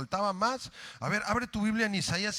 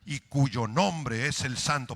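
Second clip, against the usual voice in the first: slow reading; 3 semitones higher, 5 dB louder than usual. Shown as a demonstration.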